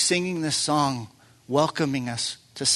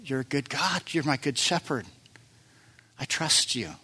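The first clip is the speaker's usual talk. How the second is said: soft, hushed prayer to God; gently acted surrender in prayer; humble prayer; 5 dB quieter than usual. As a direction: pray it quietly and sincerely, as if kneeling. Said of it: "get on our knees and go".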